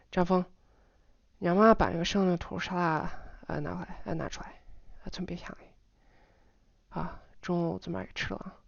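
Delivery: hurried, softening to near-whisper; varied intonation, de-stressed. Shown as a demonstration. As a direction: rattle it off casually, syllables swallowed. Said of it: "vary my intonation in general".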